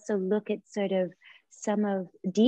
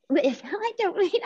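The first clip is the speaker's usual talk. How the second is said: laughing; 11 semitones higher, slower than usual. Real, not acted. Embarrassed laugh mid-answer.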